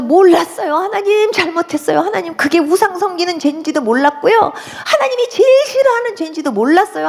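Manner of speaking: re-enacted confession, rising into a high plea; repentant pleading. Convert confesses idol worship to God, pleading high. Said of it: "하나님 앞에 막 회개했어요".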